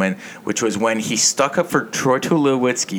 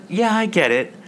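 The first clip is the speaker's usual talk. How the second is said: mock rant at radio host; 3 semitones higher than usual. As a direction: pitch it up like a fed-up caller. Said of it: "And I was like".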